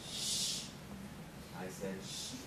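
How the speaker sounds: hushing. Real, not acted. Hushing the room.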